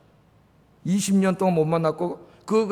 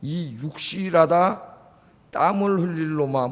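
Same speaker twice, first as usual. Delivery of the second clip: mock scolding mother; 2 semitones lower, 4 dB quieter, slower than usual. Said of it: "어머니들이 얼마나 무서운지 욕하다".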